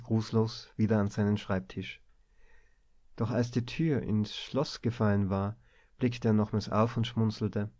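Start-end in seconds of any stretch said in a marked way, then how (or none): none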